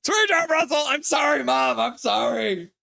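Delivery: put-on high, squeaky, sheepish kid voice; mock sheepish apology. Streamer apologising to mom in chat, high sheepish whine. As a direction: plead like a scolded boy. Mother scolds via chat.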